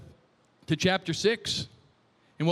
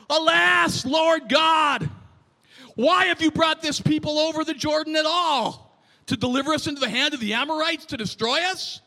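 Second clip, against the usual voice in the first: Joshua; 5 semitones higher than usual. Acted. Preacher reads Joshua's complaint to God, a touch whining. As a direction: cry out in raised, whining complaint. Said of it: "sounds to me like he's whining a little bit".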